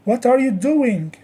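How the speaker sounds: exaggerated teacher's tune on What are you doing; model question intonation. Shown as a demonstration. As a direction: ask it for students to copy, doing brought down at the end. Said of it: "copying my stress and intonation".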